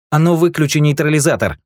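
high, loud demand; harsh order. A narrator's reading. Rick orders the guard to switch it off, loud. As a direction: demand it at gunpoint. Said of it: "приказал он хранителю".

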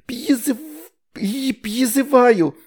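put-on high babyish mumble; high little-girl babble; toddler mumbling. A narrator's reading. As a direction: mumble like a tiny girl trying a spell. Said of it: "бормотала она".

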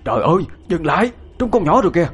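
high alarmed cry to stop. A narrator's reading. Old man cries out to stop the diggers, high alarmed shout. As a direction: shout them to a halt in alarm. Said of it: "Bác Năm Tự la lên".

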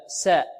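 ساء said thin and light, no heaviness; a plain light ساء for contrast; light sin. Shown as a demonstration. Teacher contrasting sin with sad. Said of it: "السين هكذا".

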